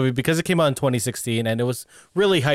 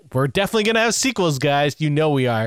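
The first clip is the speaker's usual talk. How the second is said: acted overconfident promise. Movie assuring fans of sequels, acted confidence. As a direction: promise it as if it's a certainty. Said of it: "that movie definitely felt like".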